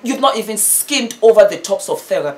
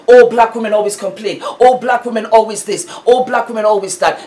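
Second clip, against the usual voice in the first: mocking quote; 3 semitones higher, 5 dB louder, faster than usual. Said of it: "flipping the script 'cause it's always".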